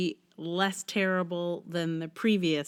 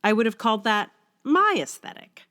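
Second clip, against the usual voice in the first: brighter, more animated reading voice than her chat; essay reading; 4 dB louder than usual. Acted. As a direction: read the essay out like a polished blog post. Reads her blog essay aloud.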